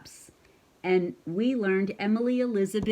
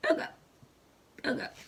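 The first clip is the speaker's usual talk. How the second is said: soft hiccup sounds; 6 semitones higher, 4 dB quieter, faster than usual. Shown as a demonstration. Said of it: "I'd rather just go".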